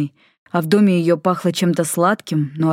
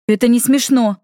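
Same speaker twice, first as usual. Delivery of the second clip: higher, sharp indignant retort; 6 semitones higher, 3 dB louder than usual. A narrator's reading. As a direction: scold him, not amused. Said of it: "возмутилась Рыжая".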